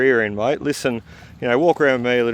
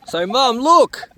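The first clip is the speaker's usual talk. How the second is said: excited calling; 13 semitones higher, 3 dB louder, much slower than usual. Acted. Child calling out to Mum.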